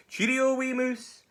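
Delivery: high, loud, stretched-out goodbye; alarmed owl farewell. Acted. Hoolet fleeing the gruffalo, high drawn-out farewell. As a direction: call a long nervous goodbye.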